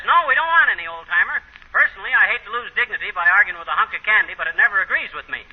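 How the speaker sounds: a hint of Molly's prim refusal; imitating Molly. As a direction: put on her voice to turn him down. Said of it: "She says".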